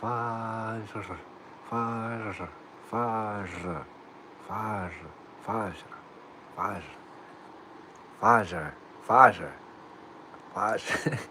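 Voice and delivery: Fajr said softly, over and over, working on the A; practising Fajr. Shown as a demonstration. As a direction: repeat Fajr quietly until it sits right. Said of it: "Make the A phonetic".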